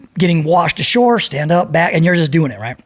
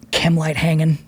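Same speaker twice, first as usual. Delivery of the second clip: ordinary delivery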